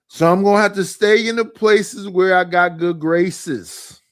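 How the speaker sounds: loud, proud delivery of a rhyme. Shown as a demonstration. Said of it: "a nigga rhyme like that".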